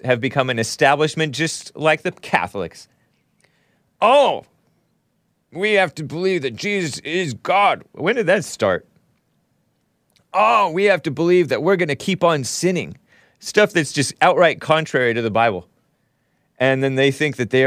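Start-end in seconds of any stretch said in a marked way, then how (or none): 4.0-7.8 high, exaggerated whiny churchgoer voice; mocking impression. Host mocking Protestants in a high, sneering voice. 10.3-13.0 higher sneering singsong; mocking impression. Host parodying Protestants with a higher sneering singsong.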